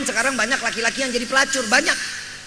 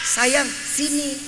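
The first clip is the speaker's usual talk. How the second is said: slow, drawn-out coaxing; lightly voiced seductive call; 2 semitones higher, much slower than usual. Prostitute calling a passing man, slow coaxing. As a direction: lure him in slowly, a hint of a hostess. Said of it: "dipanggilnya apa?".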